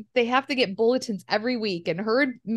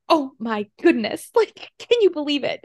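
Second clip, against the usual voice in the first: a light hammed-up gasp rising higher; dramatic little girl; 4 semitones higher than usual. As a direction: play the diva with a hair flip. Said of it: "hair flip and".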